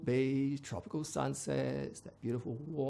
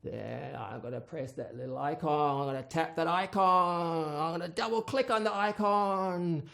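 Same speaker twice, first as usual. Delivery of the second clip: threatening authority; 5 semitones higher, 4 dB louder than usual. Acted. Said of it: "you know".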